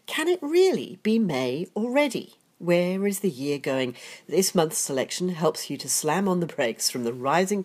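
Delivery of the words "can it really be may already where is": stuffy nose from a cold; blocked-nose nasal voice. Real, not acted. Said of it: "apologies if I sound a little bit nasal".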